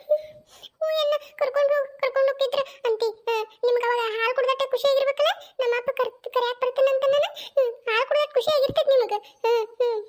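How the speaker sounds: tearful, sobby complaint; acted crying. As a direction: whimper through the accusation. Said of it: "ಅಳುದ್ ಬಿಡು".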